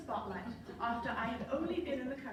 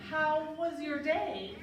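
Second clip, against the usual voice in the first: slow, louder knowing bishop; 4 semitones higher, 4 dB louder, slower than usual. Retold or imitated. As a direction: ask slowly, loaded with meaning. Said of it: "the bishop said".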